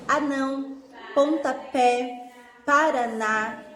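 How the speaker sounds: slow, each word's stressed syllable pushed: "anão" on NÃO, "pontapé" on PÉ, "paraná" on NÁ; stressed example words. Shown as a demonstration. Teacher showing the class oxytone stress, slow and leaning on "anão", "pontapé", "paraná".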